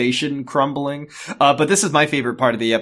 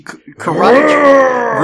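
loud, high karate yell; karate shout; 10 semitones higher, 8 dB louder, slower than usual. Pretend. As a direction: shout the chop like a martial artist. Acting out karate chop.

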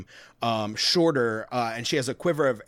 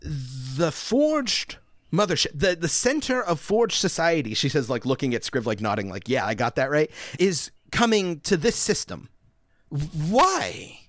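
higher and louder, checking she heard right; eager disbelief, pressing for why; incredulous; 5 semitones higher, 3 dB louder than usual. Acted. Val piecing together shocking news.

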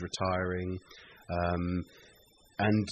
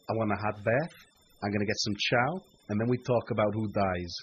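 lightly put-on American accent; attempted American accent. Podcast guest quotes Capone's line in an attempted American accent. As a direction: try your best American accent. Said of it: "do my best American accent".

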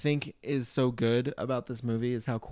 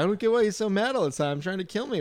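clueless complaint; 5 semitones higher than usual. Retold or imitated. Acting out MacGruber's clueless complaint.

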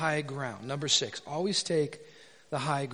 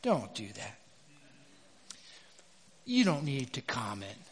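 low, soft and unhurried; a quiet nudge from within; gentle inner voice; 6 semitones lower, 7 dB quieter than usual. Acted. Holy Spirit checking the preacher at the keyboard, low and soft. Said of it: "hear the Holy Spirit say".

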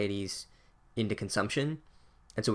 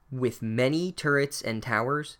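a slow, unimpressed echo with a questioning rise on turrets; mock the phrase, lifting turrets into a doubtful question; unimpressed repeat; slower than usual. Real, not acted. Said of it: "That prose is so unimpressive".

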